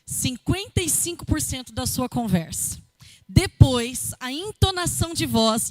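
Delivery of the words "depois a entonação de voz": "Depois" forte e destacado, seguido de "entonação de voz" enfático; entonação enfática. Shown as a demonstration. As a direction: punch "Depois" loudly, then keep "entonação de voz" emphatic. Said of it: "é justamente isso que eu acabei de fazer". ("Depois" com ênfase, bem projetado)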